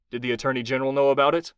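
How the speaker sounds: fast, pressing demand. Acted. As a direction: push hard for the answer. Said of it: "Kai demanded".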